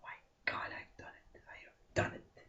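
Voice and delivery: breathless hushed whisper of relief; awed whisper. Acted. Graduate whispers to the oak tree, hushed and awed. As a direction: whisper it like a prayer of thanks.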